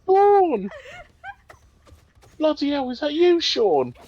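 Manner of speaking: high, loud hammed-up call; film character voice. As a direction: mimic a character calling out in surprise. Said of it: "they talk like that".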